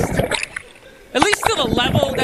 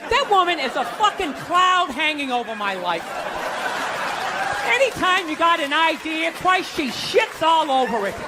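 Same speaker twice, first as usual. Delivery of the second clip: grumbling dad. Retold or imitated. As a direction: grumble it to yourself. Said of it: "He'd be saying".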